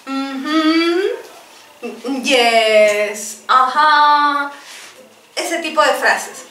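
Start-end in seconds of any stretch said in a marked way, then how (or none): 0.1-4.5 faking understanding. Retold or imitated. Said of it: "asumir que sí entiendo diciendo".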